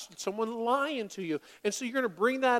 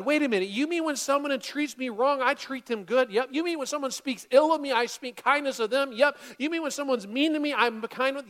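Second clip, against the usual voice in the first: mock incredulity; 3 semitones higher, 3 dB louder than usual. Imagined incredulous listener.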